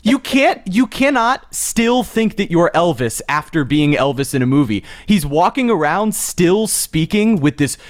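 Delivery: fed-up complaint about a celebrity; exasperated rant. Real, not acted. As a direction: rant in emphatic disbelief. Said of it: "Jeremy rant A today".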